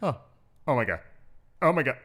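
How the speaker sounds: high panicked squealing beeps, rising to a scream; Lewis freaking out. Retold or imitated. Host imitating Lewis panicking live on stream, high frantic beeping. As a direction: shriek in disbelief as the horse goes down. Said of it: "my best rendition of Lewis doing this".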